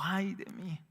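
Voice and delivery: breathy whisper, almost no voice; whispered confession. Retold or imitated. Preacher voicing Isaiah's confession, whispered.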